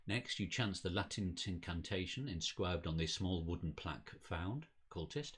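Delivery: measured dramatic game narration; storyteller reading aloud; story narration. A narrator's reading. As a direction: read it out like an unfolding mystery. Reads the game's story text.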